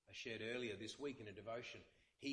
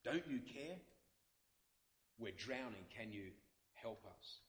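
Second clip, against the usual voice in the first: rebuke turning to appeal. Shown as a demonstration. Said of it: "a rebuke that turns to an appeal".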